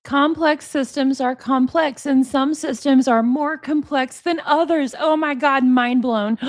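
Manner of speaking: sarcastic amazement ending in a gasp; mock mind-blown. Host parroting the expert's truism, mock mind-blown. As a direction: parrot it as if it were profound.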